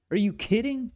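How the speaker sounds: are you kidding me, sky-high and loud; incredulous. Real, not acted. Reacting to a suggestion.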